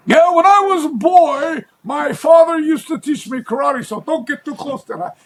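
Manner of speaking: put-on high old man's voice, rising to a shout on karate, then trailing off; the old man at the flea market telling about his father, in an imitated high old man's voice; imitating an old man. Quoting the old man in his eighties.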